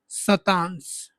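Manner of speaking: शतांश stretched very slowly and low; drawn-out term. Shown as a demonstration. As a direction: draw out शतांश syllable by syllable. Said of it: "क्या बोलेंगे?".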